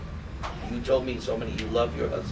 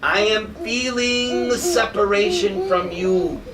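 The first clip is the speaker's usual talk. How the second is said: longing lament; 5 semitones higher than usual. Acted. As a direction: voice a devotee aching with separation. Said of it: "Lord Chaitanya says".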